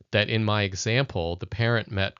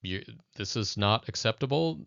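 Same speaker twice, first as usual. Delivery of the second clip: authoritarian parent. Retold or imitated. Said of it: "a very authoritarian approach".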